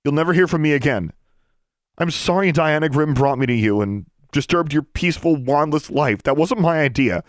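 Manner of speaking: high, loud, impassioned begging; desperate pleading. Acted. Girl begging her estranged sister to save a friend, desperate pleading. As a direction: plead urgently, pitched high and pushed hard.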